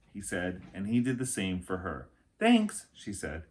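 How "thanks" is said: put-on girl voice. Annie voiced.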